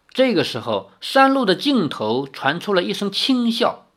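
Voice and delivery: expressive, measured novel narration; story narration. A narrator's reading. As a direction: read the tale aloud with lively intonation.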